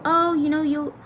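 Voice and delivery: high, bright imitation of her own excitement; mock delighted self-talk. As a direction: play back how giddy you told yourself it was. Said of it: "That's why I kept telling myself".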